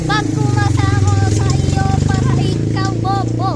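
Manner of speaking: shouting the insult; loud insult. Acted. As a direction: yell it at them. Acted quarrel, insulting the other.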